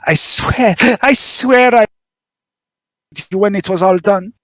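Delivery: a lightly voiced nervous informant, spilling his story; nervous smuggler confessing. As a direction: talk like a worried smuggler who finally confesses. GM continues smuggler NPC monologue.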